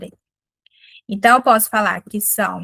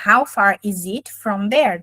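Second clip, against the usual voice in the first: slow teaching example; much slower than usual. Shown as a demonstration. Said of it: "eu posso perguntar".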